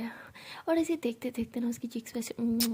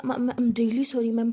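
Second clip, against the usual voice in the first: drawn-out, louder sorry; slow pleading apology; 5 dB louder, much slower than usual. Acted. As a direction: stretch out each word of the apology. Secretary pleads for forgiveness. (धीमी, खिंची हुई माफ़ी)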